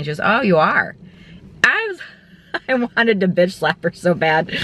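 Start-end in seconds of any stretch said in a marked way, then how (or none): 0.2-1.0 retold sarcastic "oh, really" tone; mock condescension. Retold doctor's sceptical comeback. 1.6-4.6 real laugh breaking into the words, higher voice; laughing exasperation. Real, not acted. Laughs while venting about doctor.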